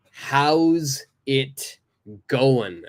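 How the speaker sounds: "going" said as "goin"; "How's it going" with the final G dropped; casual "How's it goin". Shown as a demonstration. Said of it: "I don't say the G".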